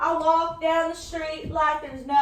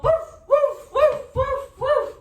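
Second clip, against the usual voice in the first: playful barking; 9 semitones higher than usual. Pretend. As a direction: bark like an excited little dog. Dog boy barks.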